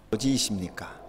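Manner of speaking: soft whispered question to the fathers. Real, not acted. Preacher asks the fathers in the pews, whispered. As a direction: drop to a hushed whisper.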